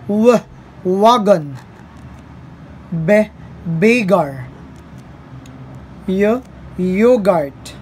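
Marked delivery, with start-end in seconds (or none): 0.1-0.4 W as a short "wuh"; initial letter sound. Shown as a demonstration. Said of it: "initial sound or middle sound". 2.9-3.3 B as a short "buh"; initial letter sound. Shown as a demonstration. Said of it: "initial sound or middle sound". 6.1-6.4 Y as a short "yuh"; initial letter sound. Shown as a demonstration. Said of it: "initial sound or middle sound".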